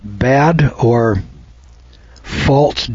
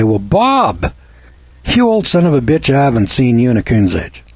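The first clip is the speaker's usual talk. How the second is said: friendly ribbing greeting. Shown as a demonstration. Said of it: "it's the tone of voice that has a lot to do with the use of words".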